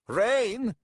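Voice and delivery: high, loud one-word outcry; shout. A narrator's reading. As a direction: shout it out in alarm at the storm. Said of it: "shouted Tathanel".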